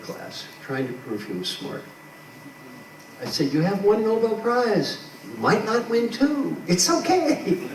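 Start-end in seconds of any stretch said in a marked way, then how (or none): 3.5-7.7 playful teasing. Retold or imitated. Teasing a Nobel laureate.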